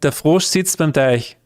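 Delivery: same sentence in an Austrian accent. Shown as a demonstration. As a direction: give it an Austrian German accent. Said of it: "And in Austria, you would say".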